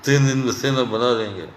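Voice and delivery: low, put-on boastful voice; mocking boast. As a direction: parody the big promise with scorn. Mocking Bhagwat's claim. (नीची, बनावटी डींग वाली नकल)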